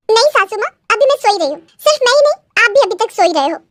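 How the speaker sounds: a hint of a teasing young bride; cheeky daughter-in-law. Bride answering back to her mother-in-law, lightly cheeky.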